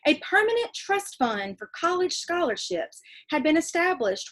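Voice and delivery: reading a letter from a novel to the class; steady read-aloud voice for kids. Acted. Teacher reading a letter in a novel to her class, read-aloud voice.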